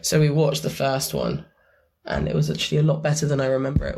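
hoarse after a late night; croaky, rough voice. Real, not acted. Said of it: "apologies for my croaky, croaky voice".

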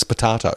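"potato" with a long ah; potahto version. Shown as a demonstration. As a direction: say "potato" as po-TAH-to. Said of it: "I don't know anyone who says".

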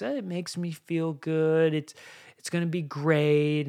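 a hint of a kid making excuses; child voice. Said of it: "it's like a child voice".

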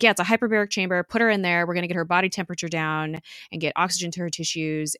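fast, pressing imitation of a doctor; urgent rapid-fire. Simmons explains the emergency plan, rushed retold urgency. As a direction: rattle off the instructions without a break.

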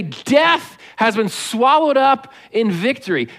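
slow, emphatic victory proclamation; triumphant taunting reading. Shown as a demonstration. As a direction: draw it out as a taunt, never boring. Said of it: "You don't read that boring".

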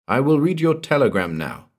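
calm, detached voice on a bad phone line; small cool voice. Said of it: "A small voice, distinct and cool".

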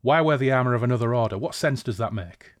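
quick gruff challenge, loud start; fast growled demand. Acted. Boar guard questions the disguised stranger, fast and gruff. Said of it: "growled the boar".

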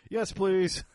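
eager yes. Retold or imitated. Customer eagerly answers the holster maker, high and bright. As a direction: chirp it like a delighted kid.

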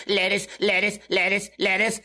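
robotic chant on one note. Retold or imitated. Customer mimicking minutes of lettuce boy, robotic voice. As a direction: repeat it like a stuck robot. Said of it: "it's a weird robotic voice like this".

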